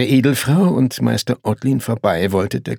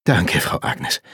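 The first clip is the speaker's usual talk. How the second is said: lower, sighed thanks; relieved sigh; 4 semitones lower, slower than usual. A narrator's reading. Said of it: "seufzte erleichtert".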